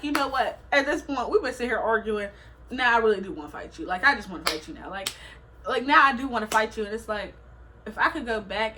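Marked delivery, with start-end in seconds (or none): 0.0-6.8 raised, insistent challenge; heated retort. Retold or imitated. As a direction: push back hard, picking a fight. Retelling a heated argument.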